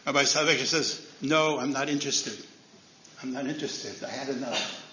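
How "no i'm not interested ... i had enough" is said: low, soft, tired turning-down; quiet refusal. Acted. Rabbi waving off the Brisk committee, quiet and weary. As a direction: let the no sink away, weary and done.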